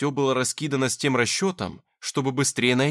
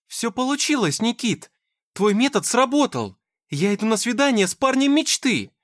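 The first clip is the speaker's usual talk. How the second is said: much higher, louder, bubbling over; thrilled; 11 semitones higher, 5 dB louder than usual. A narrator's reading. Dasha thanking Nikita for his method, overjoyed and high. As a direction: squeal the good news.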